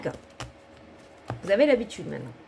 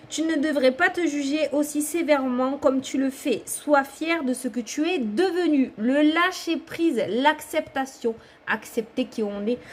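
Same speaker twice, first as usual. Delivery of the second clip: guru reading; 3 semitones higher than usual. Acted. Card reader reads advice to viewer, guru-like. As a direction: read it out like a guru, drawing out key words. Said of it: "On dirait un gourou qui parle".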